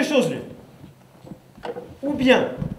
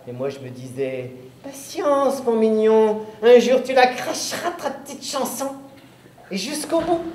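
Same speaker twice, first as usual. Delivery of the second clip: gloating witch. Acted. Witch tells the boy she waited for him, gloating. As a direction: savour each word like a patient witch. Witch recounts her revenge.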